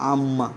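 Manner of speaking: আম্মা said as "am-ma", both m's sounded; double m. Shown as a demonstration. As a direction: linger on the mm in আম্মা. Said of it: "তাহলে ময় ময়". (আম্মা-তে দুই ম স্পষ্ট)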